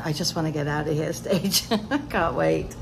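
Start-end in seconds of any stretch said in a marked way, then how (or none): 0.0-1.1 impatient quote. Retold or imitated. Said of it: "I'm on the".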